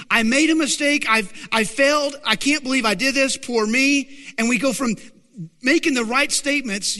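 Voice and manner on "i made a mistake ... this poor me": high, loud woe-is-me voice; mock self-pity. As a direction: wail about yourself in mock despair. Acts out self-pitying self-talk.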